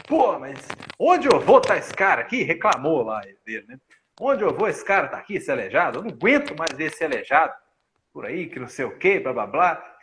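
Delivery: imitando moça irritada, mais alto e agudo; reclamação irritada. Retold or imitated. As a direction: reclama com irritação meio encenada. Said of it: "E ficou nervosa". (moça que tropeçou na maca reclama, irritada)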